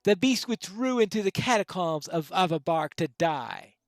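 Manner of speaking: lightly voiced haunted widow, swinging from hushed to forceful; dramatic widow's plea. Widow begs Pineleaf to slay the beast, lightly acted dramatic plea. Reads widow's tale in character.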